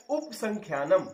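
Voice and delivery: उपसंख्यानम clipped to upsankhyanam, a after p dropped; wrong pronunciation. Shown as a demonstration. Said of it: "तो पा में आ छूट गया आपका".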